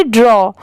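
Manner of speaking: ड्रॉ with an open "aw" vowel; teaching pronunciation. Shown as a demonstration. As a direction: model ड्रॉ as "draw", falling pitch. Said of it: "इसकी pronunciation".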